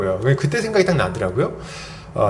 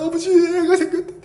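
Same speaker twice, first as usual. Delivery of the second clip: high, laughing re-enactment of happy news; excited announcement; 11 semitones higher than usual. Retold or imitated. Retelling his call to his father about the baby, excited announcement. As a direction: blurt it out high-pitched, half laughing. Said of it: "부모님한테도 연락해서".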